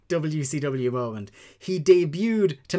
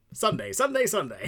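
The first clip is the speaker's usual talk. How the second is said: booming monster truck announcer; 6 semitones higher than usual. Retold or imitated. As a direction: hype it like a truck rally ad. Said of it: "the monster truck announcer in The Simpsons".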